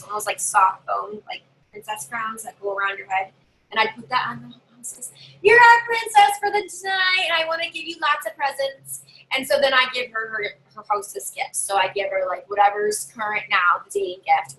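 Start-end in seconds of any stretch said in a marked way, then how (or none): 5.4-9.0 gushing. Acted. Greeting hostess as princess.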